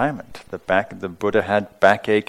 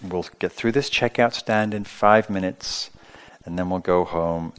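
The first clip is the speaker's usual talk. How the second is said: patient mother. Retold or imitated. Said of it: "the mother says patiently".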